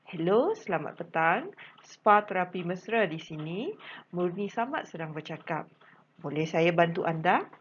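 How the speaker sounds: lightly polite receptionist answering the phone; a plain, courteous model phone answer; polite phone greeting. Shown as a demonstration. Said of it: "contoh dia". (sapaan telefon yang sopan dan jelas)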